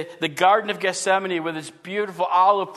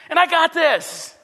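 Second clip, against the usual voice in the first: higher, louder and slow, stretching the "I" with cocky pride; smug boast; 9 semitones higher, 5 dB louder, slower than usual. Retold or imitated. Preacher mocks a believer bragging about Bible reading, smug and emphatic. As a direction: lean into the self-congratulation.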